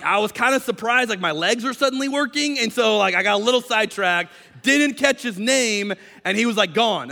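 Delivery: high, rambling self-justification; flustered excuse. Acted. Healed man explains losing track of his healer, flustered.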